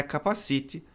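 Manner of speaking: "capacite" said Brazilian-style, stressed on CI; wrong pronunciation. Shown as a demonstration. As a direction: say "capacite" with a Portuguese accent, like ca-pa-SEE-tchee. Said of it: "em vermelho a pronúncia errada".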